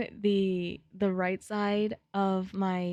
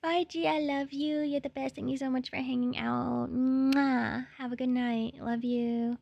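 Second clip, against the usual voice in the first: high, sweet goodbye; fond farewell in a lifted voice; affectionate send-off; 4 semitones higher than usual. Real, not acted. Seeing off a friend who hung out, affectionate.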